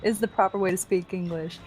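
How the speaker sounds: lightly put-on Southern US accent. Shown as a demonstration. Reading chat aloud on request, in a Southern US accent. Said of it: "in your best accent".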